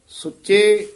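ਸੁੱਚੇ followed by a short rest; ਸੁੱਚੇ set apart on its own; slight halt. Shown as a demonstration. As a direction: linger on ਸੁੱਚੇ, then pause. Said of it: "ਇੱਥੇ ਵੀ ਥੋੜ੍ਹਾ ਠਹਿਰਾ ਦੇ ਦੇਣਾ".

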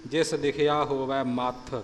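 ਮਥ said with a slightly doubled consonant; slight doubling. Shown as a demonstration. Teacher modelling the verse, ਮਥ with a hint of doubling. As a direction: give ਮਥ a touch of extra weight. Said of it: "ਮੰਮੇ ਦੇ ਉੱਪਰ ਅਦਕ ਦੀ ਆਵਾਜ਼".

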